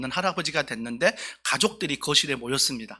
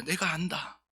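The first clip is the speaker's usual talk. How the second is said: God's reassuring voice; 4 semitones higher than usual. Retold or imitated. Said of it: "하나님께서 우리에게 이런 말씀하실 거예요".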